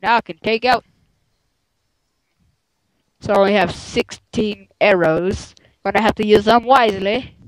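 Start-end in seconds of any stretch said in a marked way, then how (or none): 3.2-7.4 put-on a weak, barely-there British accent on the arrows line; lightly put-on British accent, quick and casual; poor British accent. Gamer jokes to his friend in a poor British accent. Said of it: "That was my poor British accent".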